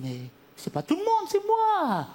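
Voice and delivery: indignant shriek. Retold or imitated. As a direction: fling it back at her, shrill with outrage.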